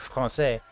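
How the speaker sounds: FRANÇAIS with French r and nasal vowel; French pronunciation. Retold or imitated. Dad overheard by his child, Français in proper French. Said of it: "she overhears me, like, say".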